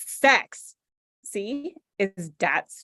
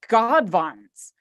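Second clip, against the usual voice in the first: breathless whispered aside; 3 semitones lower than usual. Acted. Reading a silly author's note, a whispered aside to friends. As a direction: hush it like a secret.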